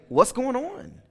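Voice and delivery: high, startled question; surprised. Retold or imitated. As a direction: shoot up in alarm at her tears. Wife crying on FaceTime.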